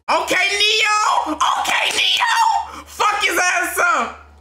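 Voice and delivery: root hard for Neo; cheering shout. Real, not acted. Fan cheering Neo on through the fight.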